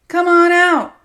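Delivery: loud high shout; bellowing challenge. Acted. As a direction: yell it into the empty house. Abuser bellows at hidden friend.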